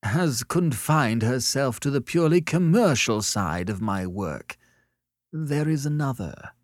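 high, offended retort; spitting out words. A narrator's reading. Sellers defends his work to Annette, spitting out the words. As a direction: spit it out with wounded dignity. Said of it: "spitting out the words".

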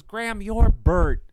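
high, slow correction; brother correcting. Retold or imitated. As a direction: lightly voice the brother. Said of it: "And he goes".

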